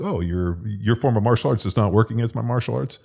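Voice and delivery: mock martial-arts challenger. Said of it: "those things where it's like".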